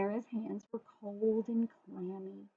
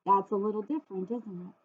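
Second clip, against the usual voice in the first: gasp, then quicker amused remark; surprised gasp. Real, not acted. Reader showing children the picture, mock shock.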